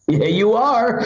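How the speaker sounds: high-pitched contradicting holler; mock insistent call. Driver contradicts before leaving, mock insistent call. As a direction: call back firmly in a high put-on voice.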